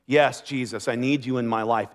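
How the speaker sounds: quiet, sincere prayer to Jesus; soft prayer. Pretend. Pastor voicing a new believer's prayer to Jesus, softly. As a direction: pray it softly, meaning every word.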